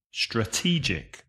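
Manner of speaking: quiet echo of Strategic stressed on TE; soft repeat for learners. Shown as a demonstration. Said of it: "The stress changes".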